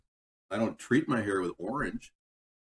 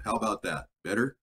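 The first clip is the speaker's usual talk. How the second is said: tin can sound; 5 semitones lower than usual. Real, not acted. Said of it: "Sounds like a tin can".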